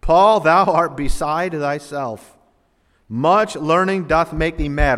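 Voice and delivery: slow, loud accusing call; a governor shouting Paul down; Festus's loud, slow outburst; loud rebuke. Acted. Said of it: "Festus said with a loud voice".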